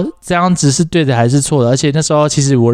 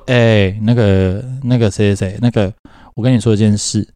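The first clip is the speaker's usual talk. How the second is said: retold hesitant opener; 3 semitones lower than usual. Phoning an old classmate to come out, hesitantly. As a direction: stall on each filler, mildly awkward. Retold awkward coming-out phone call.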